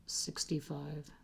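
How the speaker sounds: a soft unvoiced whisper of the number. Real, not acted. Reading the last number off her notes, whispered. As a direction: breathe the number out under her breath. Counting up to sixty-five in notes.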